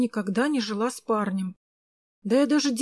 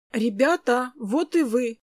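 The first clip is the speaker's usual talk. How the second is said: glad greeting; 2 semitones higher, slower than usual. Acted. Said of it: "обрадовалась я".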